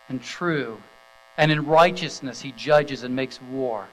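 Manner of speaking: measured, ringing Bible reading to the congregation; scripture reading. Acted. Pastor reading Revelation nineteen to the standing congregation, solemn and proclaiming.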